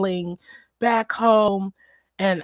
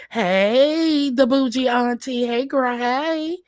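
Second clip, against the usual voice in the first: excited greeting; 5 semitones higher, 4 dB louder than usual. Real, not acted.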